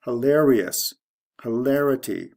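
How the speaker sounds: hiLARious, then hiLARity, cleanly separated; shifting stress. Shown as a demonstration. Teacher reading the example pair, LAR stressed in hilarity. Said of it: "The stress goes from the second to the third syllable".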